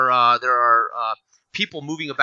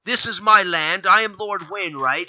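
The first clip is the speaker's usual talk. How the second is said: lightly voiced proud lord, higher; 5 semitones higher, 3 dB louder than usual. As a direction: announce yourself as lord of the land.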